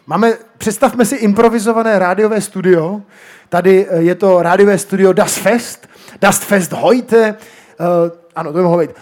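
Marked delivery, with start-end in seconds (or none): 0.1-5.9 mock radio presenter opening the show; a hint of an on-air presenter; radio host voice. Shown as a demonstration. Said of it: "udělám takovým rozhlasovým způsobem". 6.2-7.4 mock radio jingle, slow and drawn out; slow, drawn-out radio show name; radio jingle title. Shown as a demonstration. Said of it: "takovým rozhlasovým způsobem".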